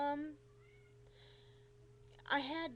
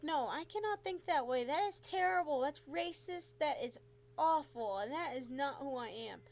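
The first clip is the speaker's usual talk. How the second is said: scolding herself; 3 semitones higher, 5 dB louder than usual. Retold or imitated. Woman telling herself off for stereotyping, emphatic. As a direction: firmly tell yourself off.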